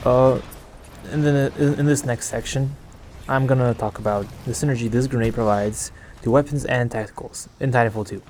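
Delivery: soft late-night half whisper; whispering a little. Real, not acted. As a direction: keep it hushed so no one wakes. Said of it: "whisper a little".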